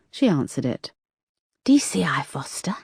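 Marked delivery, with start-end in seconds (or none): 1.6-2.8 whispered, high and muffled; a muffled caller's whisper. A narrator's reading. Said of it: "came a muffled high voice".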